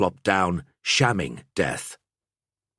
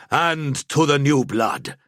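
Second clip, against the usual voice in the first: dry; 7 semitones higher, 4 dB louder than usual. Acted. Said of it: "Ansbach added dryly".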